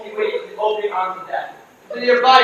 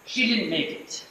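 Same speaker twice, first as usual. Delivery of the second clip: solemn; 9 dB quieter, slower than usual. Acted. Solemn announcement of death.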